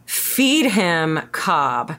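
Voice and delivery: "Feed Him Cobb" slow with each word stressed; slow emphatic nickname. Shown as a demonstration. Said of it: "but it's Jeremy".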